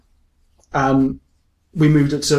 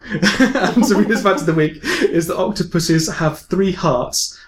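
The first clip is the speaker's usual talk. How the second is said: drawn-out, higher segment announcement; announcer; 5 semitones higher, slower than usual. Acted. Host announcing the weekly fact to listeners, announcer style. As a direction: announce it with slow, raised fanfare.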